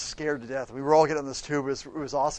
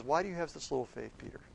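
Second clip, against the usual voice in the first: gentle rebuke; 7 dB quieter, faster than usual. Acted. Jesus gently rebukes sinking Peter.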